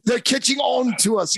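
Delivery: imitating a British villain; English accent. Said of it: "You're like".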